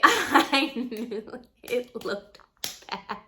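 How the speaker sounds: drawn-out words through laughter; slow it right down while laughing. Real, not acted. Laughing at her own confession.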